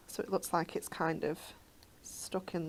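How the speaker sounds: unvoiced whisper. Real, not acted. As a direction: breathe it out softly. Crafting quietly.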